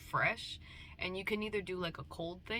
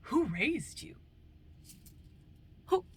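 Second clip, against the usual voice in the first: mock parent; 7 semitones higher, 4 dB louder, slower than usual. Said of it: "parents be like".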